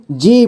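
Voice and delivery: जी with a drawn-out ee; long vowel. Shown as a demonstration. Teacher showing the long matra in जी, vowel stretched. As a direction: hold the ee of जी long. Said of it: "लंबा समय खींचा जाता है".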